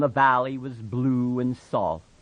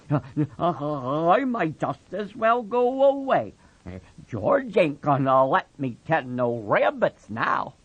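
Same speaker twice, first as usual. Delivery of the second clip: put-on lightly pitched-up childlike man; Lenny, downcast; 4 semitones higher than usual. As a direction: mope it, giving up. Lenny resigned.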